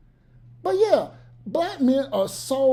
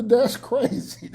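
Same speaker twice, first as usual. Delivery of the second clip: dismissive brush-off; 2 semitones higher, slower than usual. Retold or imitated. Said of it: "Hit him with the".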